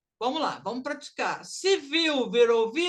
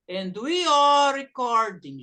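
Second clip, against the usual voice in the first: slow demo sentence; 5 dB louder than usual. Shown as a demonstration. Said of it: "Já gravei pra vocês".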